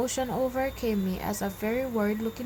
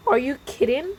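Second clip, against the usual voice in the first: scoffing; 5 semitones higher, 6 dB louder than usual. A narrator's reading. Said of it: "clearly unimpressed".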